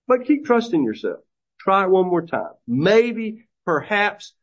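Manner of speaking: sarcastic. Retold or imitated. Prophet taunting haughty Babylon, mock-encouraging and sarcastic. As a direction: egg them on with a sneer. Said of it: "Notice the sarcasm".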